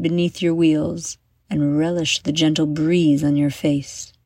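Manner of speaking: put-on measured storyteller voice for children; guided visualization. Storyteller taking young adventurers through Noe Valley, guided visualization. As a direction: lead young listeners through an imagined journey, phrase by phrase.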